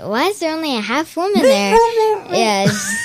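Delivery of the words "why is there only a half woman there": high, fast blurted question; mock Farkle question. Retelling Farkle at the art show, high fast blurt. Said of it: "he says".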